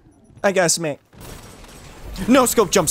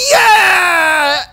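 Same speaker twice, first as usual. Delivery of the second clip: loud joyful yell; triumphant shout; 11 semitones higher, 7 dB louder than usual. Real, not acted. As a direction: celebrate the kill out loud. Triumphant kill after waiting.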